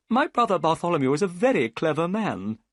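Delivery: high, eager gentleman's voice; Thaddeus Sholto. A narrator's reading. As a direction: lift it up as the anxious host. Thaddeus tells of his brother.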